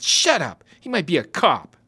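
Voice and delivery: put-on high, loud bossy kid; angry hush. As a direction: cut him off sharply. Kid hushing brother.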